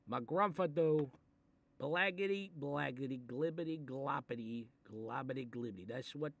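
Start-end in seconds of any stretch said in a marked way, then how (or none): 1.8-5.9 silly gibberish. Retold or imitated. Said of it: "that's what that one meth guy sounded".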